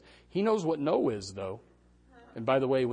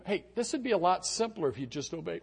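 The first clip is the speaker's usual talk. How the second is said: exasperated parent shout; 3 semitones higher than usual. Retold or imitated. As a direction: yell it like a fed-up parent. Parent scolding child.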